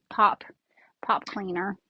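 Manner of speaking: "pop cleaner" said like the caption spells it, pop for pipe; caption mishearing. Shown as a demonstration. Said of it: "it puts a".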